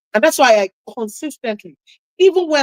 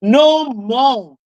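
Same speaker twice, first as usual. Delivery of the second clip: said out loud; 2 semitones higher than usual. Retold or imitated. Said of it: "said out loud".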